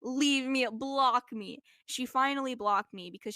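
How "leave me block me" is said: exasperated plea. Retold or imitated.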